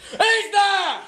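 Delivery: angry demand. Acted. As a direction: throw the question back at her, sharper. Husband repeats, demanding answer.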